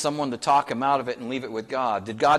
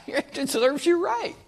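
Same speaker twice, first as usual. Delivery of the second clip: laughing, high and slow, mock gloating; joking gloat; 13 semitones higher, slower than usual. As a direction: savor the joke as if getting even. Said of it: "that would be preaching by Pastor Pepley if I had my way".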